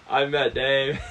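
Matt Damon impression. Shown as a demonstration. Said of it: "really good Matt Damon impression".

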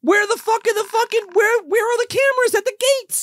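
exasperated rant. Real, not acted. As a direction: rant in disbelief. Exasperated rant about cameras.

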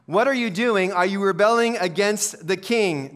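a touch of scorn, slowing at the end; mild contemptuous scoffing. Acted. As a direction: challenge them with understated contempt. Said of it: "they scoffed contemptuously".

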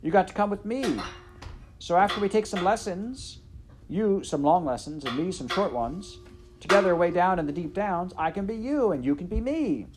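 high, loud, insistent yelling; shouting. A narrator's reading. Midge explaining her plan to the princess, shouting. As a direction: shout the whole garbled plan out. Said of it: "opened her eyes and shouted".

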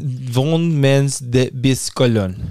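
slow, over-careful faux German reading; half-French mangled German; mock German title. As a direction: stumble through the German title with a French lilt. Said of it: "we went way French on it".

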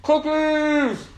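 high excited yelp; excited cry. Real, not acted. Drunk vlogger suddenly crying out for cookies, high and excited. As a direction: blurt it out, thrilled.

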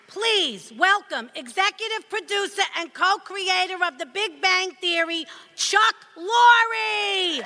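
big stage announcer introduction. Acted. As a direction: announce the guest grandly.

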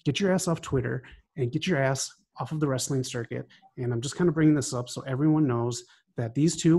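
heated, scornful callout promo; angry wrestling promo. Real, not acted. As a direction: cut a furious heel-style promo on them. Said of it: "I just wanted to cut a promo".

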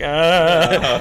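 mock cry of dread at the fangs; retold recoil cry. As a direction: let out a drawn-out "ah" of recoil.

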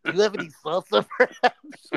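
fast, rising mock-polite ask; polite alien voice. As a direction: ham up a courteous alien.

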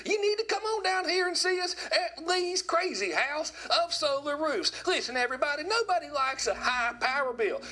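high-pitched, hammed-up Southern redneck car-sales pitch; South Georgia redneck ad voice. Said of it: "that classic South Georgia redneck voice".

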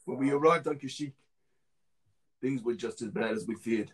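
audition-reel narration in a mock New Zealand accent; bad New Zealand accent. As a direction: read it as a clone soldier with a poor New Zealand accent. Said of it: "how bad this accent is".

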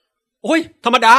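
slow, drawn-out unbothered voice; chill shrug. Retold or imitated. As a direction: brush it off lazily. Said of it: "กะลาสีชิลมากแบบ". (เสียงชิลๆ ไม่สะทกสะท้าน)

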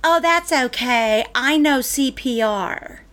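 mock cashier, slow and drawn out; lightly imitated cashier, words stretched; cashier's retort. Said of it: "And she goes".

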